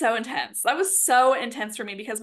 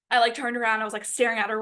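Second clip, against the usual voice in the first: usual speaking voice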